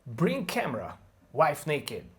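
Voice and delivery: clipped telegraphic "Bring camera, wife naked"; only the stressed words, each hit; content words only. Shown as a demonstration. Teacher drops function words, content words punched. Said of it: "let's lose the function words".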